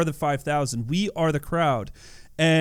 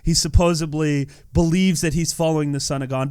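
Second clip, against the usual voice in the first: ordinary delivery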